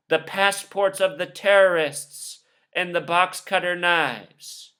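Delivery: slow, deadpan anchor reading the script; a light send-up of a news anchor reading slowly; mock calm newsreader. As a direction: read it like a robotic TV anchor, slowly. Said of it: "ladies who would just calmly read to you the script".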